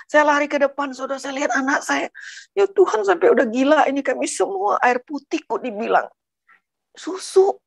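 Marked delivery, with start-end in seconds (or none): 2.6-7.6 high-pitched, retold exasperation; incredulous exclamation. Mother cries out to Tuhan over the water, incredulous. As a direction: exclaim in disbelief, pitch jumping up.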